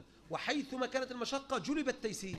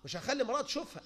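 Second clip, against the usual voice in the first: mock stubborn sheikh; 3 semitones higher, faster than usual. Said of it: "والتاني يقول لك".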